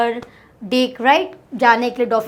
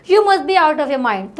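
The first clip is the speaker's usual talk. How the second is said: mock exclamation; much slower than usual. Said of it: "यहाँ पे exclamatory mark है".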